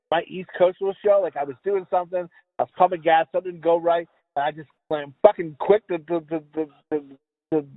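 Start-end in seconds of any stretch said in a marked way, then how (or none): 5.9-7.6 stuck repeating the word; stammering over the word; stuttering. Real, not acted. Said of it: "I was fucking stuttering".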